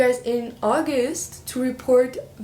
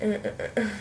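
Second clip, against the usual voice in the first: mock manly grunts; 5 dB quieter, much faster than usual. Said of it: "this masculine man who's like".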